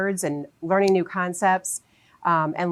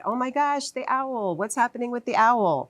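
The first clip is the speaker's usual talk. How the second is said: high, breathless storybook gasp; animated excited voice; 6 semitones higher than usual. Shown as a demonstration. Teacher showing parents how to read aloud, excitedly. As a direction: act amazed for a child listening. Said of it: "Use an animated voice when you're reading. Um, act excited".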